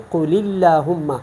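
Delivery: "اللہم" with a light, thin L; thin lam. Shown as a demonstration. Teacher gives the example after zer, thin L in "اللہم". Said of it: "باریک پڑھیں گے".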